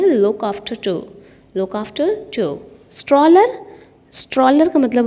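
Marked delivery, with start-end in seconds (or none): 0.0-2.6 slow repeat. Shown as a demonstration. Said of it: "उसके लिए word use करते हैं".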